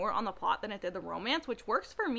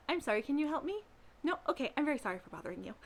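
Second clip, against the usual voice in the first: timid sweet guy; 3 semitones higher, 9 dB quieter, much faster than usual. Retold or imitated. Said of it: "he was just like".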